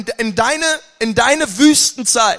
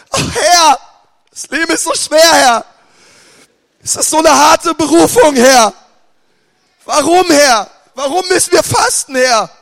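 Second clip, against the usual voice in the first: higher, louder hammed-up lament to the Lord; mock complaining prayer; 5 semitones higher, 5 dB louder than usual. Preacher imitating a grumbling faster praying, mock lament. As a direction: wail a self-pitying prayer. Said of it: "da setzt du dich schon hin".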